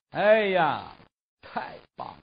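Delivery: hushed, thrilled exclamation; breathless delight. Acted. Shen Xiu alone at home, thrilled by his new bird, hushed delight. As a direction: gasp it out in private rapture.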